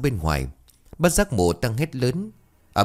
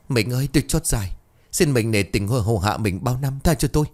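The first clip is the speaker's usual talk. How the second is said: begging; 3 semitones higher than usual. Acted. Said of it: "miệng không ngừng van xin".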